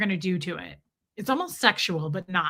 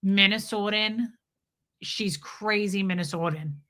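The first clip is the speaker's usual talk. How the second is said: put-on Minnesotan accent. Host describing her friend, Minnesotan accent. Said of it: "has the most deep".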